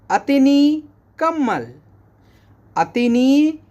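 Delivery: अतनी कम्मल high, stress on अतनी; Arabic model phrase. Shown as a demonstration. Teacher modelling Arabic for blanket. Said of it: "इसको बोलेंगे".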